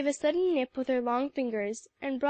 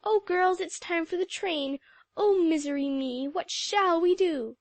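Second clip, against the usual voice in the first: exclaiming; 5 semitones higher, 4 dB louder than usual. A narrator's reading.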